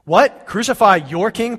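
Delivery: disbelieving cry at the crowd; shocked governor shouting his question; incredulous. Acted.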